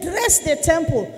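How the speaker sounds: "Dress the temple" pitched high and slowed; emphatic pastor. Retold or imitated. Pastor quoting the Bible to justify dressing up, emphatically on "Dress the temple". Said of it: "He emphasized on that side".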